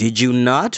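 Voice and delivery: ordinary delivery, nothing marked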